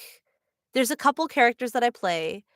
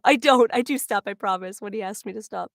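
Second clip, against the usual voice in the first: ordinary talk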